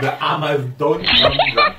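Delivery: slow, laughing copy of her Denglish; laughing imitation. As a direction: repeat her mixed-up words while laughing. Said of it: "Very perfect speaking Denglish".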